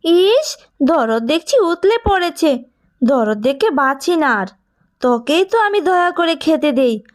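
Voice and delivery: a scornful aunt mocking, then threatening; sneering aunt. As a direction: look down on the girl and warn her.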